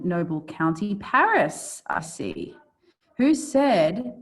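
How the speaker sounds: lightly acted Shakespeare recital; dramatic verse reading. Teacher reading Romeo's discovery of Paris, dramatic verse reading. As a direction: read it as verse, lifting key words. Reads Romeo's lines aloud.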